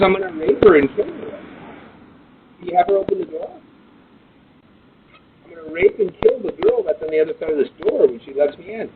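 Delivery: loud through doorbell. Real, not acted. Man yelling through a doorbell.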